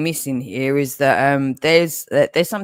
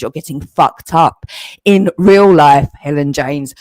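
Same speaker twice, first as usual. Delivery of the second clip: angry shout; 6 dB louder than usual. Real, not acted. Threatening rival.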